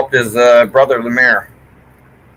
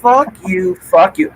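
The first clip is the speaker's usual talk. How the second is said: swearing out loud; 4 semitones higher, slower than usual. Real, not acted. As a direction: curse openly at full voice. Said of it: "I can say this now".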